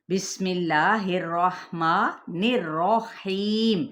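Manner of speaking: whole line slow, with a plain ma in الرحمن, no nasal; correct slow recitation. Shown as a demonstration. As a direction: recite the whole بسم اللہ الرحمن الرحیم correctly and slowly. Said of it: "موٹا کر کے".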